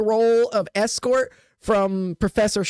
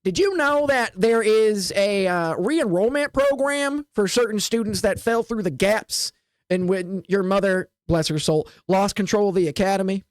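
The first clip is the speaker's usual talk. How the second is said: Deirdre voice. Acted. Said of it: "let me get in the mindset of Deirdre".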